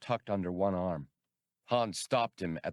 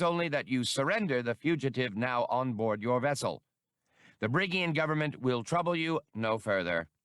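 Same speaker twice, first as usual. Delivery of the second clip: official announcement; 5 semitones higher than usual. Acted. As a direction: boom it out like a herald over a loudhailer. Brigian over the loudhailer.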